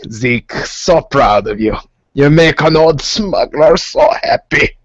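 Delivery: slow, doting old smuggler, lightly voiced; a slow, proud pat on the back. Old smuggler boss praising his pilot, slow and doting. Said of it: "he goes".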